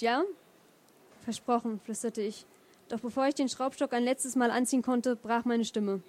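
measured literary reading aloud; story narration. Acted. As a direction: read the chapter to an audience, phrase by phrase. Liest aus eigenem Buch vor. (ruhig vorgetragene Romanlesung)

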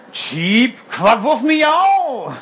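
slow, high bird call; little bird voice. Acted. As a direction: answer like a happy tiny bird.

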